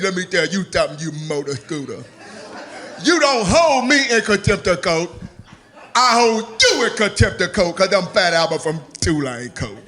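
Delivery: a hint of a low, mumbled deaf man; low mumbled Fat Albert. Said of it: "He said".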